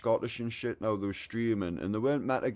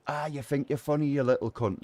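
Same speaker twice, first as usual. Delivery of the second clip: mock angry; 6 semitones higher than usual. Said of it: "one of them ran up".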